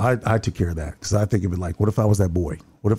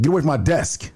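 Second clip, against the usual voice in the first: higher-pitched mock yell, little added volume; imitated sergeant's yell; 6 semitones higher than usual. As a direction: imitate an irate sergeant ordering someone off. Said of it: "yelling at me again".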